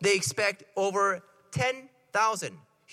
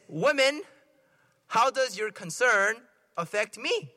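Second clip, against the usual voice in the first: mild mock-rude retort with a punched opening word; lightly acted brush-off, broken into deliberate pieces; 3 semitones higher, slower than usual. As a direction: quote it as a mildly rude rebuff. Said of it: "It's kinda rude, I think".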